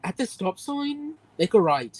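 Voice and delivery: a slow, fed-up sat-nav voice; annoyed GPS voice. Retold or imitated. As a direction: drag it out like a bored, irritated sat-nav. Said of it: "it sounds so annoyed".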